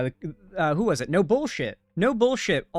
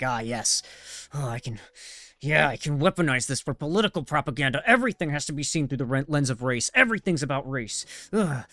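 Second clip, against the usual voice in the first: mocking scheming voice. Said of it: "and you're like".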